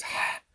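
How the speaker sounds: "ha" as a strong breath from the throat; proper Arabic het. Shown as a demonstration. Teacher showing the proper Arabic sound, breathed. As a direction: breathe out "ha" hard without scraping. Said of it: "the proper pronunciation in Arabic".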